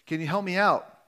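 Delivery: mild mock yell; retold yell. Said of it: "yells up".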